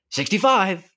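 loud, high, altered voice; called out number. Acted. Camper at dinner calling out a joke number, loud and high. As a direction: boom the number across the room.

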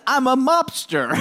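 lightly voiced slow tough guy; a hint of a gangster; mobster voice. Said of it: "Is that a better voice?".

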